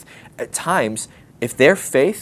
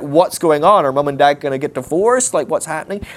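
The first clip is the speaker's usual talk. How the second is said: put-on worried kids; 4 semitones higher, 5 dB louder than usual. Kids worried about parents divorcing.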